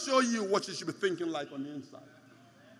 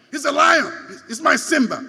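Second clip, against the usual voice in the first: louder, proud exclamation; 2 semitones higher, 9 dB louder than usual. Real, not acted. Pastor showing off his pet Simba to church, proud and loud. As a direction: boast it to the crowd.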